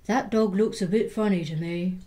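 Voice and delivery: big skeleton voice in a doubtful tone. Acted. Big skeleton eyeing the rebuilt dog, doubtful. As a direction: say it like a puzzled big fellow. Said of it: "the big skeleton said".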